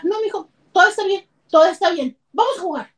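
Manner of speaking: put-on a mother masking her anger for her child; forced cheerful mom. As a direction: brush it off brightly while angry. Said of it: "Y tú con todo el enojo de las cosas".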